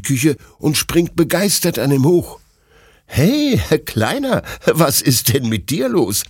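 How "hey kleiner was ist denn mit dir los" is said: high, amused greeting without open laughter; lightly amused, high-pitched question. A narrator's reading. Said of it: "fragt Detlef lachend".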